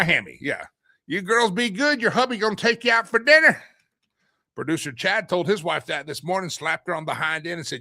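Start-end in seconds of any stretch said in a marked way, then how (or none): 1.1-3.6 high, loud mock good-ol'-boy husband; condescending husband. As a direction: talk down like a smug husband.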